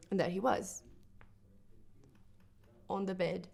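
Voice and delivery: hushed, halting recollection; subdued grief. Acted. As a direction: tell it softly, with long pauses. Recounting finding her brother dead.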